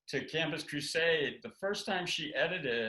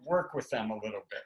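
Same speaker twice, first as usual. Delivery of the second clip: gentle laughing tact; 5 semitones higher than usual. Retold or imitated. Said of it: "Now she says".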